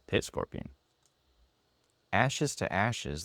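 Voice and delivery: whispered card name; softly whispered name for the scanner. Shown as a demonstration. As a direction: whisper it so the app hears only the card.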